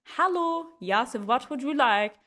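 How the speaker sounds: lightly voiced slow server; imitated server. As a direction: greet a foreign customer slowly. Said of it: "They switch to English, I go".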